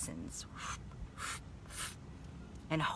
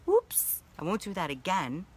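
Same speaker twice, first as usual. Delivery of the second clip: sheepish laugh; 5 semitones higher than usual. Retold or imitated. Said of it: "And then I'm like".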